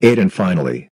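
very loud. Acted. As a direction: blast it at ear-splitting volume. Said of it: "So prepare to turn down your volume".

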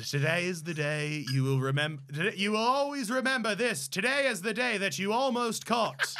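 lightly attempted movie pirate voice; a fumbled, half-hearted pirate boast; Jack Sparrow. Fumbling a pirate's famous farewell, lightly voiced pirate. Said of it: "You fucked that up so bad".

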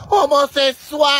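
loud drawn-out playful yell; teasing shout. Real, not acted. Shouting teasingly to her partner across the garden, loud. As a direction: call him out across the yard.

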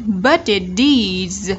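Budget deeds run together slowly, each T softened to a D; linked, flapped T. Shown as a demonstration. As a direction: say Budget deeds as one chain, "bu-di-dees". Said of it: "nối âm và nó sẽ có thành D trung âm".

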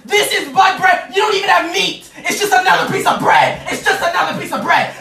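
hammed-up indignant tirade; comic outraged rant. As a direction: rail at your mom's failings. Son's rant at his mom.

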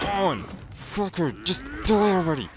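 high, loud yell at the enemy; angry yell. Real, not acted. Gamer screaming at a boss to die, loud and high. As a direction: scream at him to just die.

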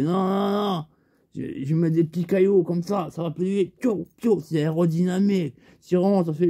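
Lascar's voice. Retold or imitated. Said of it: "il me fait".

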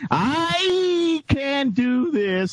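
slow, high hammed-up promo yell; wrestler promo shout.

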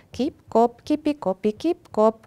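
high, staccato pitter-patter; light, high knocking sounds; rabbit's feet drumming. A narrator's reading. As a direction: imitate raindrops with light rhythmic taps. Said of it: "a földhöz veregette izmos hátsó lábait".

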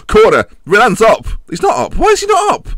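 loud, high, urgent calls; frantic shouting. Real, not acted. Streamer at the final corner, frantic shouting. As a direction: yell at the screen in a panic.

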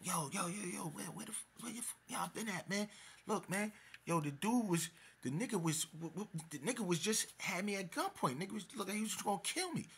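very high, frantic imitation; mock a panicked man stammering out alarm; screaming in panic. Retold victim screaming to friends about gunpoint scare, frantic. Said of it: "screaming at".

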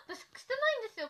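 high, loud whine through laughter; half laugh, half wail the denial. Real, not acted. Streamer to viewers about the filter, whining through laughter.

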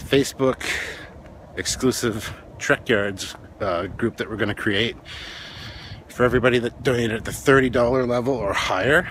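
winded, short breaths while walking. Real, not acted. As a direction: talk through shallow breathing. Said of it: "Sorry, I'm out of breath".

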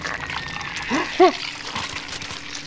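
high, breath-only gasp; startled gasp. Real, not acted. Gamer startled by what appears, frightened gasp. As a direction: suck in air in sudden fright.

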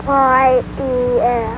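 letter by letter, Y E S; spelled out. Shown as a demonstration. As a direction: spell Y E S out slowly. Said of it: "Let me hear you".

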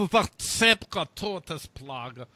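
slow, badly faked German accent; mangled mock-German accent. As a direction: drag it out in a dubious German accent. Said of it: "worst German accent I've ever heard".

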